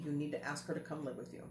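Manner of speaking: a hushed, inward voice, lightly voiced; voice of God. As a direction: quietly relay the inner command. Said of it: "God literally said to me".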